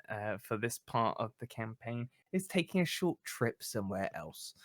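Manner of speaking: game master's closing narration. A narrator's reading. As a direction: bring the scene gently to a close. Game master closes the scene.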